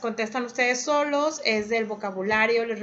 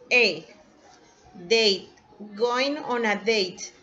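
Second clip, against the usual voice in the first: slow model answer; 2 semitones lower, slower than usual. Shown as a demonstration. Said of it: "The right answer is letter".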